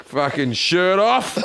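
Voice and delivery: mock party cry. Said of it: "it would be like".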